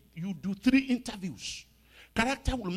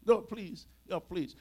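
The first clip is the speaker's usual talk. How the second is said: mildly acted pleading; begging; 3 semitones higher, slower than usual. Preacher plays Moses begging God over his punishment, mild pleading. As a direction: plead with God, lightly dramatized. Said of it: "he began to beg God".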